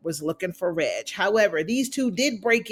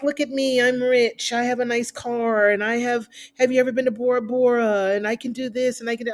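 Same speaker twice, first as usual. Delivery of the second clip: bragging rich lady; 3 semitones higher than usual. Retold or imitated. Voicing Alicia bragging to Candace, higher and showy. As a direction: brag like you're rich and want her to know it. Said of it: "She's like".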